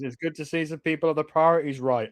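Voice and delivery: understated dry sarcasm; lightly sarcastic in-character remark. Acted. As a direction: make a mildly sarcastic dig. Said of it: "Demi sarcastically".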